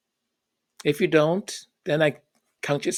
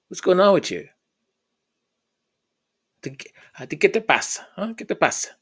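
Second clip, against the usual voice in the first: pressing father; 4 semitones higher, faster than usual. Retold or imitated. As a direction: press him like a worried dad. Dad presses, switching to Spanish.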